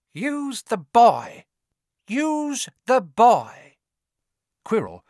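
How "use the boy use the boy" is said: high, slow, loud command; sinister disembodied voice. A narrator's reading. Hidden master ordering his servant, high and commanding. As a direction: draw the order out high and eerie. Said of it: "a voice answered".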